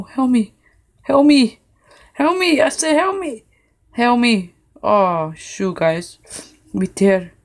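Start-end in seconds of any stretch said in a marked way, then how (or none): 0.0-4.5 mock panic. Stuck in game, pleading.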